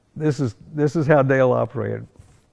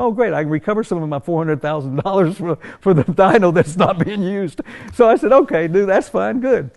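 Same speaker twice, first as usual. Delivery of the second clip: sarcastic; 6 semitones higher, 3 dB louder than usual. Retold or imitated. Sarcastic reply about wasted money.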